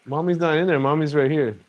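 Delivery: gentle reassuring parent voice. Real, not acted. Parent comforts crying child.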